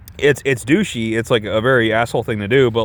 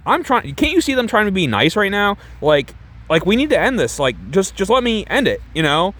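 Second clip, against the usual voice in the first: high-pitched, exasperated failed tough guy; hammed-up angry actor; 6 semitones higher than usual. Man trying to dump his fling, hammed-up high exasperation. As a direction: badly act tough, voice pitched way up. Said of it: "my best impression of him in this scene".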